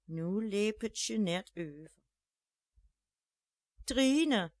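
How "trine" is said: loud, high call of a name. A narrator's reading. Jeanette calls her neighbour Trine, loud call. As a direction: call the neighbour through the door. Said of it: "riep ze op haar naberste".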